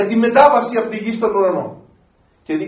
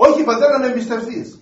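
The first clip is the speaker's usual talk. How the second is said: pleading son; 4 semitones higher than usual. Acted. Son answers father in parable.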